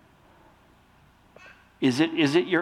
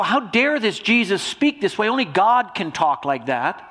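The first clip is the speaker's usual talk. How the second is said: higher-pitched, affronted outburst; indignant, pitched up at the start; frustrated indignation; 5 semitones higher, 4 dB louder than usual. Acted. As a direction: act out scandalized religious critics. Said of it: "the frustration of all these things".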